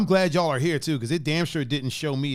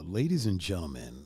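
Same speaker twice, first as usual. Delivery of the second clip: ringmaster; 8 semitones lower, 6 dB quieter than usual. Pretend. Circus-style intro for a viewer.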